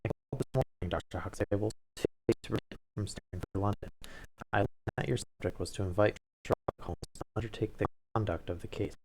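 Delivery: a crisp, lightly voiced young secretary; stiff secretary. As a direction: speak for the prim, nervous secretary without changing the voice much. Wilder, secretary, speaks to doctor.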